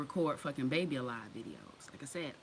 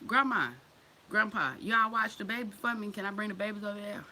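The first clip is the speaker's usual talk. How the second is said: sweetly asking grandparents; 4 semitones higher, 4 dB louder than usual. Retold or imitated. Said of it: "Be like".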